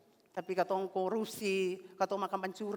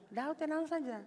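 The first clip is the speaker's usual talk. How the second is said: calm reassurance; 8 semitones higher, 4 dB quieter than usual. Acted. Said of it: "Tadi Tuhan bilang".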